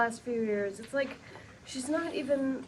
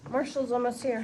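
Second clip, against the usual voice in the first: calling out; 2 semitones lower than usual. Acted. Lily calling out to the gang.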